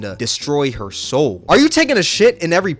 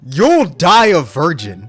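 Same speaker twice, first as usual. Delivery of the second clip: slow, deliberate mock voice; slow put-on voice; 4 dB louder, slower than usual. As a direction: drag each word out. Reading a roast in a put-on voice.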